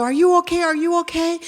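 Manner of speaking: lightly voiced concerned neighbor; concerned stranger. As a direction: voice the man checking on her. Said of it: "he's at the window".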